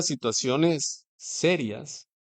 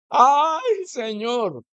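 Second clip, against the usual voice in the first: mock desperate plea; 8 semitones higher, much slower than usual. Preacher acting someone hanging and praying, high desperate cry. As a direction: cry out as if dangling in fear.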